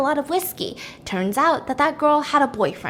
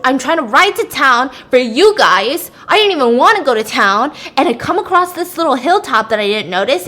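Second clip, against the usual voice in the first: agitated rant; 6 dB louder than usual. Retold or imitated. Bloodied Leon angrily explains crash.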